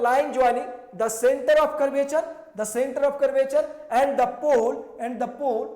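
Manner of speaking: very slow, each word laid out for notes; slow dictation. Shown as a demonstration. Teacher dictating the definition to students, very slow. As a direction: read it out slowly so students can write.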